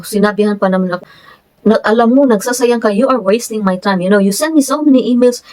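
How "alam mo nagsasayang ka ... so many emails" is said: mock-irritated scolding, slightly raised pitch. Surveyor telling off a client for wasting time, imitated scolding. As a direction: imitate someone fed up with pestering. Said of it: "Nagalit siya sa akin".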